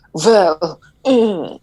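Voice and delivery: hesitant posh British drawl on the well; a lightly put-on posh British doctor stalling; posh British accent. Doctor hesitating before answering Richard, mock posh British accent. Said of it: "very posh, like, British".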